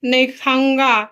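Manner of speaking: put-on slow echo of a child's refusal; imitating child. Mother repeats her child's refusal back, lightly mimicking. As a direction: lightly mimic a little boy, drawn out.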